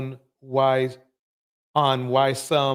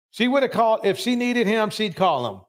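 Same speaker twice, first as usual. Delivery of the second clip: higher, heated rant about the man; emotional, mad rant; 5 semitones higher than usual. Real, not acted. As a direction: pitch rising as the frustration spills out. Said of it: "I'm sorry to get emotional about it".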